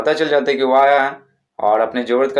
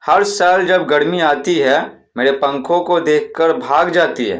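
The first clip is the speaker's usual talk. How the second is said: slow, slightly raised hawker chant; vendor's rhyming cry; 2 semitones higher, slower than usual. Shown as a demonstration. Teacher continues the fan seller's rhyme for pupils, slow sing-song call. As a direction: sell the fans with a sing-song boast. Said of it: "और क्या चिल्लाएंगे".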